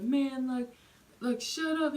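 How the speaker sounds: fed-up rider scolding the ranter; retold telling-off. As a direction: tell him off sharply. Neighbor snaps at yelling man.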